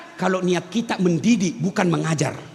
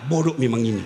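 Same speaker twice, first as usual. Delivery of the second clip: lower, scornful mock scold with a laugh; mock scolding parent; 11 semitones lower, faster than usual. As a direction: sneer at the child with a laugh. Parent scolding child as stupid.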